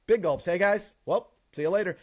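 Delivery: cheerful quoted goodbye; quoting the movie line. Retold or imitated. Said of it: "he says".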